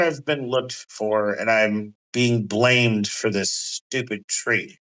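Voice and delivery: lazy threat to the captured party; Loki villain. Acted. Loki addressing the pinned party, smug and menacing.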